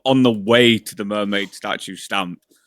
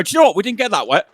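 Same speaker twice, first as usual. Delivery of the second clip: mocking; 9 semitones higher, much faster than usual. Mocking Joe's claim.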